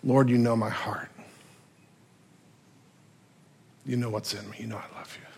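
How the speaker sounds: almost whisper it, pleading; hushed plea. Acted. Peter pleading his love to Jesus, very soft. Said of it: "dropping his head goes".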